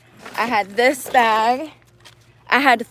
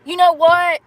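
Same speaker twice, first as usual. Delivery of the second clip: higher, sudden gasp of panic; gasping alarm; 6 semitones higher, 3 dB louder than usual. Real, not acted. Dancer discovering her lock gone, gasping and higher. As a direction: catch your breath as something else is missing.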